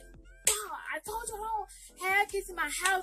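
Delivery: retold indignant complaint. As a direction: imitate an exasperated man objecting. Retells man yelling about kids.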